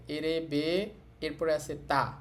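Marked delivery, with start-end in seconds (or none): 0.1-0.9 এরেবে with the final ে held long; long vowel. Shown as a demonstration. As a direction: stretch the last vowel of এরেবে. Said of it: "এরপর একটু টেনে বলতে হবে".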